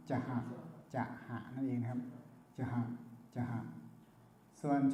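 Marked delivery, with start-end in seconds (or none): 0.1-3.6 จะหะ with a puff of breath; จะหะ as an aspirated c; aspirated cha. Shown as a demonstration. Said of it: "ถ้าใช้เป็นชอชิงก็".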